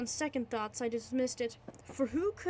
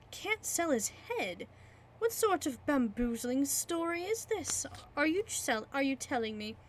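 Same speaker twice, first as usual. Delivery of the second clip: mild rising anger; 2 semitones higher than usual. Acted. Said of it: "Getting into a towering rage".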